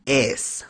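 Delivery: Es said with a long open "eh"; German name pronunciation. Shown as a demonstration. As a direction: say Es as "ehss", ä vowel. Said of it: "the first name for our dear friend here is".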